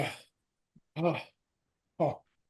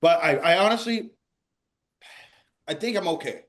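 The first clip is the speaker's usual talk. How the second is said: tearful, mouth numb from spice; mouth burning from spicy food. Real, not acted. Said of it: "my mouth is numb".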